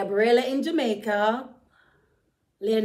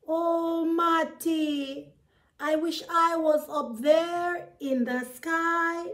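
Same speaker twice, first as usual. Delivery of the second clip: lightly raised, dreamy rat voice; a hint of a yearning little rat, pitched up; storyteller voicing a wistful rat a touch higher; Ratty the rat, wistful; 5 semitones higher than usual. Ratty wishes to fly.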